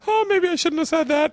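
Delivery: high, mock-guilty little voice; sheepish realization. Boy regretting his joke to sobbing mom, mock sheepish. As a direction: play the kid realizing he went too far.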